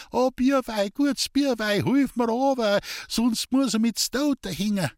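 put-on high, tearful begging old woman; whining plea. A narrator's reading. Old woman hanging from a branch, begging the boy for help, tearful. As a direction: plead tearfully for rescue from above. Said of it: "weinerlich zu flehen".

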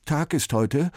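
slow, halting nervous question; trembling voice. A narrator's reading. Sven asks the man, voice trembling. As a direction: stumble over the words in fear. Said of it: "mit zittriger Stimme".

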